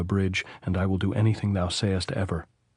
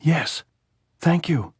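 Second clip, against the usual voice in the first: loud, higher cry breaking through tears; choking shout; 8 semitones higher, 4 dB louder, slower than usual. A narrator's reading. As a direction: shout back while choking on sobs. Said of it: "she turned from the saddle and shouted, choking".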